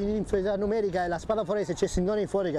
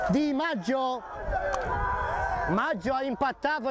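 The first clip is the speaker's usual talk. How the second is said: breathless italian goal commentary; 5 semitones higher than usual. Real, not acted. Late equalizer commentary.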